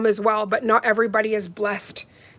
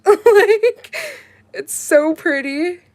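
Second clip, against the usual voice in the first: giggly delight; 8 semitones higher, 4 dB louder, much slower than usual. Real, not acted. Laughing over her own look.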